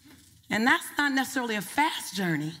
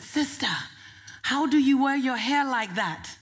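lightly put-on African accent, "Sister" lifted high; a hint of an African woman's accent, curious; 3 semitones higher than usual. Woman in the audience asking about her hair, light African accent. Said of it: "That's my African accent".

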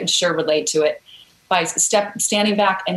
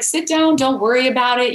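retold kindly reassurance, pitched up; 4 semitones higher than usual. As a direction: voice a kind woman putting a nervous visitor at ease. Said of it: "was so kind".

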